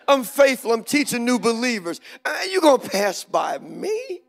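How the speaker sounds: mock-indignant, high and loud, rising into disbelief. Passed-over church worker protesting his record, indignant. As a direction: act affronted at being overlooked. Acting out his offended mindset.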